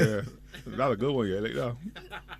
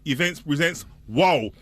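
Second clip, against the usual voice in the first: excited announcer hyping a boat party; event promo read; much slower than usual. Acted. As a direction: pump it up like a radio promo. Reads an event ad.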